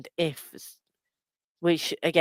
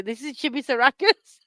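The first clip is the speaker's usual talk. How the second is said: high cutesy introduction; cute presenter voice; 8 semitones higher, 3 dB louder than usual. Pretend.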